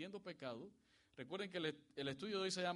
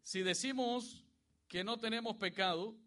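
Si decimos que no tenemos pecado drawn out, loud and high; solemn drawn-out scripture reading; slow emphatic reading; 6 semitones higher, 7 dB louder than usual. Shown as a demonstration. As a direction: read decimos slowly so the verse sinks in. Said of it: "Dice así".

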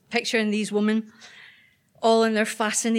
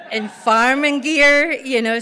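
laughing; 4 semitones higher, 8 dB louder, slower than usual. Real, not acted. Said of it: "wellies laugh".

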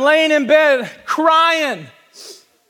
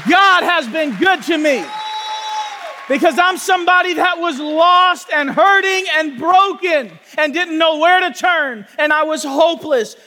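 preaching at full force; 3 semitones higher than usual. Acted. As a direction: proclaim it to the church, building. Preaching testimony.

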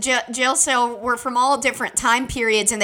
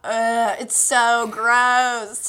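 squealing laugh; slower than usual. Real, not acted. Disgusted delight at monster.

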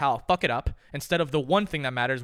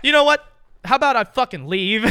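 much higher, louder fed-up snap; mock indignant retort; 6 semitones higher, 7 dB louder than usual. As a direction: storm off in mock outrage. Acted retort to rich person.

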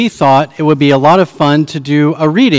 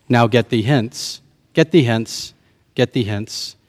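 each repeat lower and softer; fading away; 5 semitones lower, 6 dB quieter than usual. Acted. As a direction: let each get thee hence die away.

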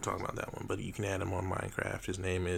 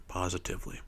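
dramatic slow punchline; 11 dB louder than usual. Acted. Outro punchline.

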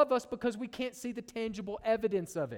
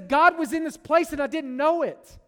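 Jacob realizing in awe, louder; a swelling exclamation of wonder; awestruck Jacob; 4 semitones higher, 6 dB louder than usual. Retold or imitated. Jacob waking at Bethel, amazed at God's presence, loud awe. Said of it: "and he says".

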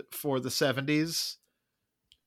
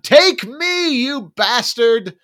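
loud, high mock scream at God; hammed-up defiant yell, drawn out at the end; imitated scream; 8 semitones higher, 9 dB louder, much slower than usual. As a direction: imitate an anguished priest railing at heaven. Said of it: "screams at God".

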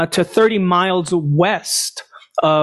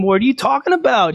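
quick, higher imitated retort; mock yelling back; 4 semitones higher, faster than usual. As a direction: fire it back fast, only half-yelled. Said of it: "Abner's yelling back".

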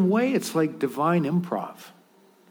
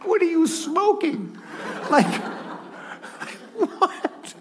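incredulous; 12 semitones higher, slower than usual. Retold or imitated. Reacting to the crowd's expectation.

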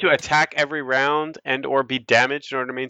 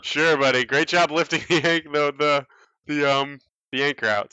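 sarcastic sailors; 4 semitones higher than usual. Acted. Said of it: "they're still cranking it, like".

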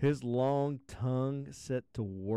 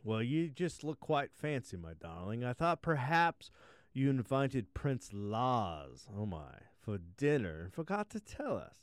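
queen voice; 2 semitones higher than usual. Acted. Queen speaks to daughter.

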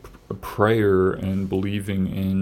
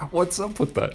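high singsong catchphrase, hammed up; SNL sketch catchphrase; 10 semitones higher, 3 dB quieter than usual. Hosts quoting the SNL sketch, hammed-up high singsong. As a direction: sing out the sketch line like the TV host. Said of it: "That's an S N L reference".

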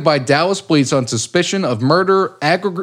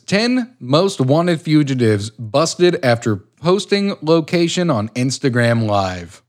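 slow, measured headline read; news read; slower than usual. Acted. Co-host introducing the second story as a headline. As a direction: announce it like a news anchor.

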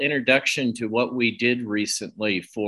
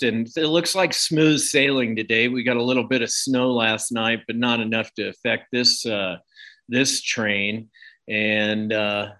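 talking with a mouth full; chewing calzone while talking. Real, not acted. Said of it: "if it sounds like I'm talking with something in my mouth".

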